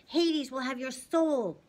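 hammed-up monster vow of doom; menacing threat. A narrator's reading. Fury threatening Percy from the floor, slow menace. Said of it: "she promised".

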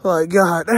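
heavy breathless sighs mid-run; breathless gasps. Real, not acted. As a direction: gasp out loud from running. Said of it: "am out of breath".

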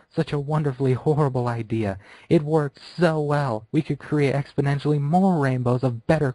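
lightly voiced gleeful villain; gloating villain. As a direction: savour the horrible idea. Rainbow Dash gloats over her plan.

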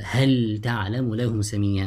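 هل with a distinct ل before تعلم; izhar. Shown as a demonstration. Teacher recites an example for students, izhar. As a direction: keep ل and ت apart in هل تعلم. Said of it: "recite with إظهار".

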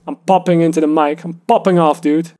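hollow over-filtered robotic voice; thin, empty robot-like EQ sound; half robot voice. Shown as a demonstration. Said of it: "really empty, robotic voice effect".

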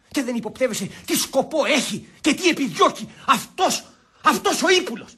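agitated, climbing to high pitch; indignant denunciation. Acted. Denouncing the schemer to the others, indignant. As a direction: build up to the accusing word.

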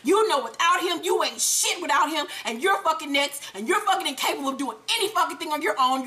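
mock tirade of insults; going off. Holly going off on Tommy without Ghost, mock angry tirade. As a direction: pile the insults up, imitating an angry lover. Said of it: "Holly is steady going off".

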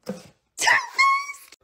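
Faced squealed very high, overjoyed; delighted squeal; excited shriek. Real, not acted. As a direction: shriek the brand name with joy. Shrieking the brand name.

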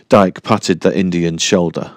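plain reading voice

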